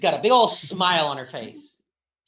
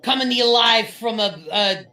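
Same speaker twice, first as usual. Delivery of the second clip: lightly raised friendly orc woman; Nextra's orc voice; 4 semitones higher, 3 dB louder than usual. Acted. Orc woman greeting the party, lightly voiced and friendly.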